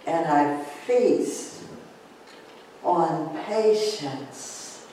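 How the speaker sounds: slow, calm affirmation. Shown as a demonstration. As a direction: savour each word slowly. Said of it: "take a deep breath in".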